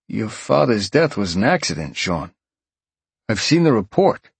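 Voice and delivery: concerned detective on the phone; gruff detective. Acted. Detective voiced.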